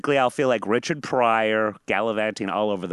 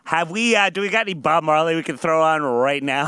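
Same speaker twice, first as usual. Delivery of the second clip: lazy stoned hippie, man; stoner; 6 semitones higher, 4 dB louder than usual. Pretend. Mock stoner talk, calls for a singer's music.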